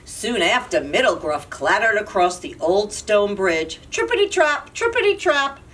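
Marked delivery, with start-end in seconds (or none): 3.9-5.6 sing-song. Acted. Middle goat crossing sing-song.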